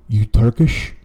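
put-on drunk Armenian passenger's accented question. Drunk passenger questioning his Uber driver, Armenian accent. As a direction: challenge him in an Armenian accent.

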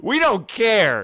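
slow, loud and high taunt; mock taunt. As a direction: drag it out jeeringly.

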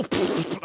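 mock dry-mouthed spitting; spitting noise. Shown as a demonstration. Actor explaining spitting feathers, imitated spitting noise. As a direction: blow out a dry "pfft". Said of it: "my mouth's so dry from shouting".

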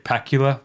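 "Pakula" said PACK-yuh-luh, like Dracula; Dracula-style pronunciation. Shown as a demonstration. Host repeating the director's joke name, Dracula-style pronunciation. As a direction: make "Pakula" rhyme with Dracula. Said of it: "like Dracula".

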